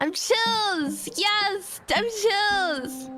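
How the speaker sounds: mock chill insistence. Mock-calm higher insistence.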